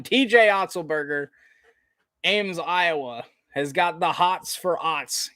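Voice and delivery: steady basketball commentary; live play-by-play. Real, not acted. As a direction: follow the ball like a sportscaster.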